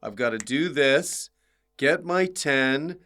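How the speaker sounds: rising item-by-item list; mock checklist. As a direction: reel off career steps, each lifting at the end. Voicing career-minded comics' checklist.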